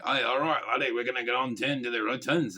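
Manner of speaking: lightly put-on northern English accent, close to Scottish; a rough attempt at a North of England accent. Showing viewers how Cummins first talked, rough northern English accent. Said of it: "so he went from saying".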